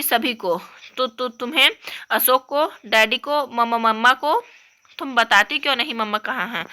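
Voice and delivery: lightly voiced upset young girl; upset little girl. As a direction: complain like a hurt kid.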